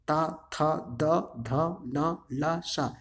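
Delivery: ता, था, द, ध spoken one by one with tongue on the teeth; dental articulation. Shown as a demonstration. Teacher shows learners that the teeth are used, dental articulation. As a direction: sound out ता, था, द, ध off the teeth. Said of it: "यहाँ देखो दांत का प्रयोग होता है".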